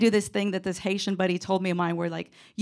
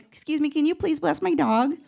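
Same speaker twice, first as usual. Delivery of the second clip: small, timid, much higher ask; sheepish; 7 semitones higher than usual. Retold or imitated. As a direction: meekly ask the pastor, voice up high.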